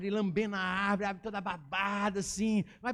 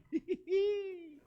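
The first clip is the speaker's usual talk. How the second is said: high, drawn-out mischievous giggle; acted squeal of naughty glee; gleeful snicker; 10 semitones higher than usual. Gleeful at catching someone sinning.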